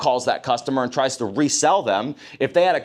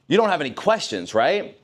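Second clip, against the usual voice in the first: leading question; 3 semitones higher than usual. Shown as a demonstration. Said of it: "So if I say".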